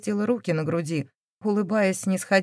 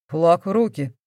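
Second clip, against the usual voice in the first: plain reading voice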